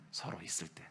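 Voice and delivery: unvoiced confiding whisper; a hushed secret aside. Real, not acted. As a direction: lean in and breathe it to them. Intimate aside to congregation.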